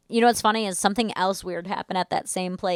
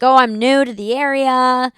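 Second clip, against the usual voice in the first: higher imitation Russian accent; put-on Russian accent; 4 semitones higher, 4 dB louder than usual. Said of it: "not in that accent".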